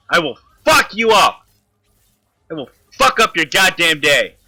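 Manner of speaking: slow, deliberate threat at the boss; real gamer rage, slowly threatened. Real, not acted. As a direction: spell out the threat word by word.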